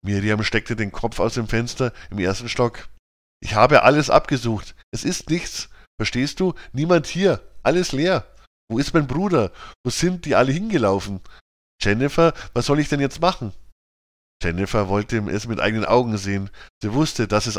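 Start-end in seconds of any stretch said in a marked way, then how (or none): 3.4-13.5 higher, anxious rush of questions; girl asking her friend what to do, mildly panicked; a touch of panic. Acted. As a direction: sound lightly frantic, searching for help. Girl panics over missing brother.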